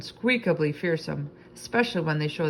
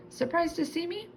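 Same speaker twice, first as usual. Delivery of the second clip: put-on 1 playful girl; 13 semitones higher, 3 dB quieter than usual. A narrator's reading. Kelsey bursting in.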